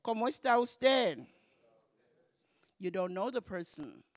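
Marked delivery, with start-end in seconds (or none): 0.1-1.2 loud, high ¿Cómo está usted?; polite phone greeting; formal phone greeting. Shown as a demonstration. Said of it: "it's usted".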